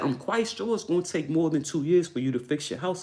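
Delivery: lightly mocked uppity neighbor; mocking neighbor. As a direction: parrot her sneeringly. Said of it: "Why does she talk like that?".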